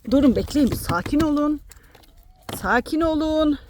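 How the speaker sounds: high, loud pleading to settle down; calming the hens. Real, not acted. Woman telling crowding chickens to calm down, high and loud. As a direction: hold them off, laughing-firm.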